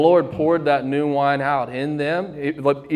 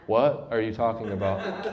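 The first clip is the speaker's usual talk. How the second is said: confused disciples, laughing; 5 semitones lower, 7 dB quieter than usual. Retold or imitated.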